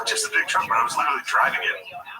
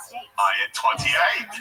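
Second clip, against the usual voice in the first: retold slow answer; much slower than usual. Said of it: "the whole time I was like".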